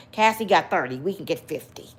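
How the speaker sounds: low conspiratorial whisper; hushed greedy scheming. Retold or imitated. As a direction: whisper the plan like plotting a lawsuit. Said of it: "let me tell you what happened".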